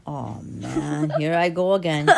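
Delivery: monster's groan breaking into laughter; dismayed monster. Acted. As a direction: lament as the monster, laughing through it. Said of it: "And the monster is like".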